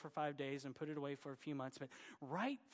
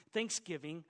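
Thanksgiving with a light Oklahoma twang, rising at the end; Oklahoma accent; 5 dB louder than usual. Retold or imitated. Preacher slips into his Oklahoma accent, a light twang. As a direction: let a hint of Oklahoma accent slip into Thanksgiving. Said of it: "that was my Oklahoma accent coming out".

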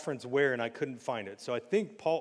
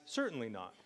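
tame, flat reading; 4 semitones lower, 7 dB quieter than usual. Retold or imitated. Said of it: "very simple and concise".

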